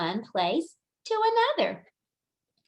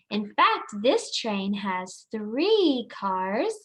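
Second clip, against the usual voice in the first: put-on reading to a toddler; slower than usual. Slow emphatic talk to toddlers.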